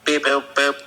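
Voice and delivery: robot beeps, lightly voiced; toy robot voice. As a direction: beep like a little robot. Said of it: "can you just give me some beep boops".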